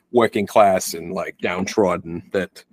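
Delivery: lightly put-on Boston accent, drawn out slowly; slow it into a touch of Boston. Shown as a demonstration. Podcaster describing working-class Boston in movies, light Boston accent. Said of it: "Wow, nice Boston accent".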